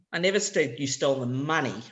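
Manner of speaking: focus on "money" at the end; stress on money. Shown as a demonstration. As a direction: push "money" in "I never said you stole the money". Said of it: "where I put the stress".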